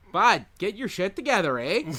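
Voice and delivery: put-on Canadian Maritimes accent, easygoing on bud and eh. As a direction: fake a Nova Scotia Maritime accent. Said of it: "Not to be maritime about it".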